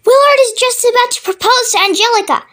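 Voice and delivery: high-pitched indignant protest; crying out. A narrator's reading. Wife missing her TV romance, crying out. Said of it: "Missus Wormwood cried out".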